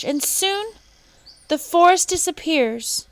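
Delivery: very high, loud squawk; a bird's shrill cry; squawking toucan. A narrator's reading. Toucan squawking at the woodcutter, very high and loud. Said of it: "squawked the toucan".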